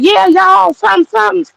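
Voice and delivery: mock Mississippi white accent. Mimicking the white band singer in Mississippi, high mock Southern accent. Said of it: "They sound to me like they trying to do Ebonics".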